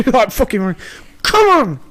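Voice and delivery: high, loud mock yell for a kid far away; yelling across a field. Dad yells across the fields at his son to come back. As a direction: bellow it across the pitch.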